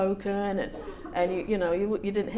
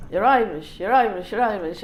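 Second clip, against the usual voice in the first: mock taunt; 6 dB louder than usual. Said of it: "I was told a hundred times".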